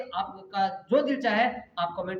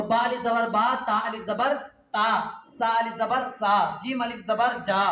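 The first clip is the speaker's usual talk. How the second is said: sing-song spelling drill for pupils; drawn-out recitation. Shown as a demonstration. Teacher drilling Urdu letters aloud, stretched chant. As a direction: chant each letter, stretch the long vowel. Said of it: "खींच करके पढ़ना है".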